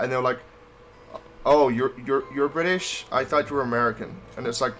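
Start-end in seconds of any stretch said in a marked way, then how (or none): 1.5-4.1 a hint of a Californian woman's accent; mock Californian accent, mildly put on; Californian female impression. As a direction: lightly imitate an American woman questioning. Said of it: "that was my Californian female".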